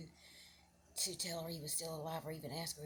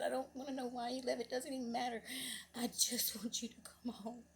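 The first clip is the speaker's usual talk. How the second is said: higher-pitched, emotional mother's voice; retold tearful plea; 5 semitones higher than usual. Mother telling her runaway son nothing else matters, tearful. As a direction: plead as if holding back tears. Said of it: "she was just bawling".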